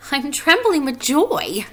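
high, loud, drawn-out delight; Wilbur's joyful voice. A narrator's reading. Wilbur explains his trembling to a spider, high and joyful. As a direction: stretch it out high and happily. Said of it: "said Wilbur".

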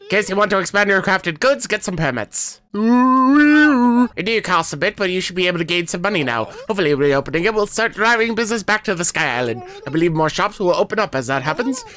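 a hint of the eager mayor; NPC voice. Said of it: "I'm doing that voice".

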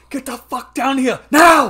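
high, very loud bellowed order with drawn-out words; full-force movie-star impression, yelling slowly; Arnold Schwarzenegger. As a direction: shout it like an action hero over the radio. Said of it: "he gets to go full Arnold".

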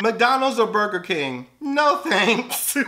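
usual speaking voice

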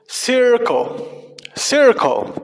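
"circle" said clearly with room to echo; repeat-after-me model. Shown as a demonstration. Teacher leading children in practice, clear model "circle". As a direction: model "circle" for learners to copy. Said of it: "Repitan después de mí".

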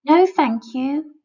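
firm little creature. A narrator's reading. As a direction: lean on each word, firmly. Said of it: "replies the little creature".

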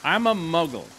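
put-on British voice, slowing at the end; jokey British muggle introducing himself; British accent. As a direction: exaggerate a mock British accent. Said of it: "Is that how y'all talk over there?".

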